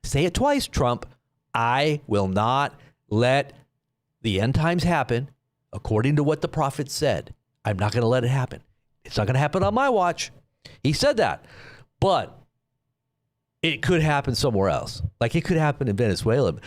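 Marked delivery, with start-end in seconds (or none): 1.5-10.3 retold solemn promise, spelled out emphatically; emphatic statement. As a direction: quote it as a firm, deliberate vow. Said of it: "that's emphatic. You're, you're, you're making a statement".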